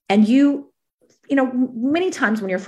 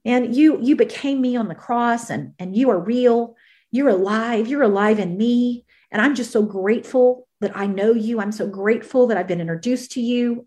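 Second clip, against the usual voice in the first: worship prayer; 2 semitones higher than usual. Shown as a demonstration. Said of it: "I begin to worship God".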